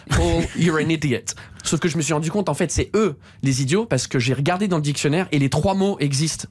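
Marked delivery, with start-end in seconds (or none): 0.1-1.3 potes moqueurs. Retold or imitated. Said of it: "je dis à mes potes".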